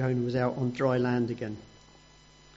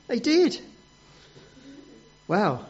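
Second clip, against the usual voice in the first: ordinary delivery, nothing marked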